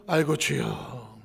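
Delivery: slow, low, drawn-out sigh of a plea; slow plaintive cry of 아이고, 주여; weary groan to God. Retold or imitated. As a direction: moan it like a man with no way out.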